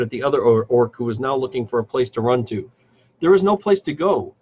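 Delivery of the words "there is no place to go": higher and louder, hissing at a fool; hissed threat. A narrator's reading. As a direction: snarl it down at the cornered orc. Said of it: "Adasser hissed".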